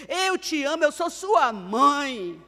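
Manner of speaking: slow, loud, heartfelt "eu sou sua mãe"; tender mother. Shown as a demonstration. Mother telling her troubled teen son, tenderly emphatic. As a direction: say it to your teenage son with full love.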